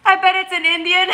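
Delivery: high, loud laugh through the words; giggling at the chat. Real, not acted. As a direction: crack up reading the comment. Reading chat, laughing hard.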